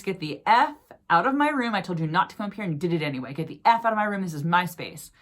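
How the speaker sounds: mock-yell it like a furious ghost guarding her room; retold ghost yelling. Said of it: "no ghosts have yelled in my face".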